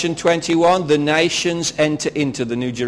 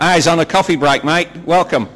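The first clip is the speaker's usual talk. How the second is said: lightly put-on Australian accent; casual Aussie voice, joking. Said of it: "อาจารย์กำลังโจ๊กสำเนียงออสเตรเลีย".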